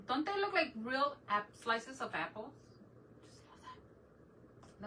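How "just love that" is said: breathy slow whisper of admiration; whispered delight. Real, not acted. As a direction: breathe it out, charmed. Admiring painted apples.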